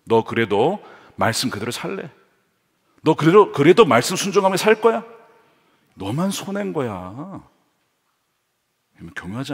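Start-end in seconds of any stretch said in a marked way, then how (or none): 0.0-7.4 tempting devil. Acted. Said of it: "지금 마귀가 이렇게 유혹하고 있는 거예요".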